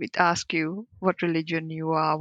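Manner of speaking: ordinary delivery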